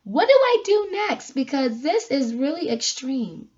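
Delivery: sudden high pitched what do I do next; exasperated quote. Retold or imitated. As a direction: voice jumps up in disbelief, then settles. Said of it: "You know, you're like".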